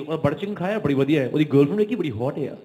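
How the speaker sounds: fast British Punjabi mimicry; UK Punjabi accent. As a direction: rattle it off like a UK Punjabi guy. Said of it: "तो normally वो ऐसे बात करते हैं".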